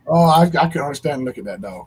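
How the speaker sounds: laughing loudly while talking. Real, not acted. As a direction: laugh through the words. Laughing at remembered ugly dog.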